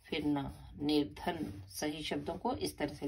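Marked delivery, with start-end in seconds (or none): 0.1-1.6 slow spelling. Shown as a demonstration. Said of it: "कैसे लिखना है".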